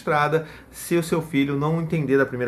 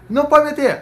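much higher and louder no; sharp scold; 13 semitones higher, 9 dB louder than usual. Retold or imitated. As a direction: bark the ban at the child. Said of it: "que é a reação principal". (bronca aguda e alta)

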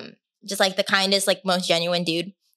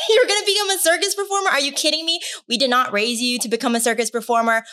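imitating outraged parents; 5 semitones higher than usual. Parents scolding their daughter for quitting school to join the circus, shrill mock yelling. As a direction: play the parents shrieking in disbelief, much higher than her own voice.

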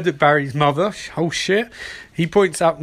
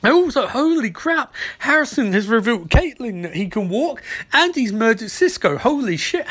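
excited; 5 semitones higher than usual. Real, not acted. Reacting to shocking episode twist.

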